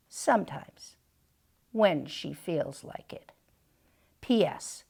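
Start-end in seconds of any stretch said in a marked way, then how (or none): 0.1-3.3 soft whispered afterthought; whispered aside. Acted. The cat queen adds a sly whispered aside. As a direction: let it slip in a whisper.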